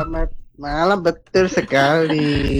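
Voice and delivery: slightly stuffed-up, congested voice; nasal from flu. Real, not acted. Caller with flu greeting the radio hosts, slightly nasal. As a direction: talk as if down with a cold. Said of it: "suaranya kok rada bindeng ya".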